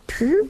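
short, high "phew" noise; imitated dust puff. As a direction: make a little puff like dust escaping. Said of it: "It just goes".

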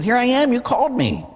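put-on high, urgent young voice calling out; a boy running up, insisting he was called; eager boy Samuel. A narrator's reading. Young Samuel running to Eli, answering eagerly in a high voice.

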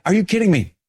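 curmudgeonly outburst. Retold or imitated. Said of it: "Curmudgeon-y?".

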